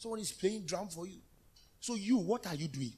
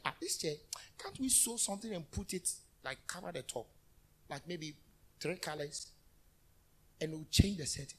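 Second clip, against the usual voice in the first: musing decorator; 3 semitones lower, 4 dB quieter than usual. Retold or imitated. Voicing someone musing over decor.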